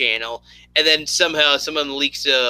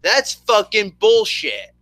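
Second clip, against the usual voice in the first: mock rage; 5 semitones higher than usual. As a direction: swear it out like a fake meltdown. Ranting about Machinima recording rage quit.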